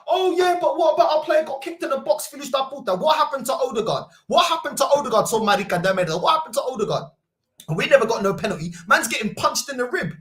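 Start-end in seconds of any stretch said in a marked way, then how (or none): 0.1-7.0 high whiny rival fan imitation; hammed-up rival fan voice; mocking rival fan. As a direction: mimic the complaining fan. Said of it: "he filled up with telling me about".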